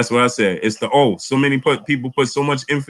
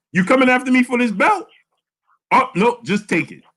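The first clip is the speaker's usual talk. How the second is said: mocking Lomachenko; 11 semitones higher than usual. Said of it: "and Lomachenko said".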